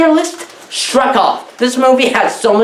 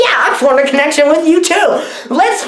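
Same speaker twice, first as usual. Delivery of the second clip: mock gushing heroine; 5 semitones higher than usual. Mocking heroine's romantic line.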